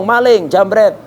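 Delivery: mock shout at thief. Shouting after a thief mid-prayer.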